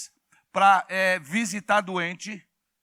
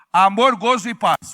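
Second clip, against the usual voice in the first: loud congregational shout; 7 dB louder than usual. Shown as a demonstration. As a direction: call it out loud. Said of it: "Fala bem alto assim".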